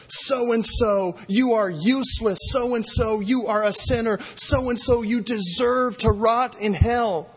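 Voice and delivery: a hint of a high accusing voice; lightly voiced accuser condemning sinners. Accuser standing before God condemning sinners, lightly voiced.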